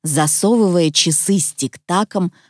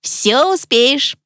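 slow, drawn-out, higher-pitched reassurance; reassuring; 6 semitones higher, slower than usual. A narrator's reading. Tik-Tak calms the worried boy, reassuring. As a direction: stretch the words out to soothe. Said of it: "успокоил его Тик-так".

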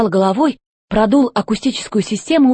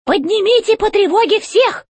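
robot chef voice; 12 semitones higher than usual. A narrator's reading. Robot chef demanding answers from the old robot, high and commanding. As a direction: bark orders from up high like a tin general.

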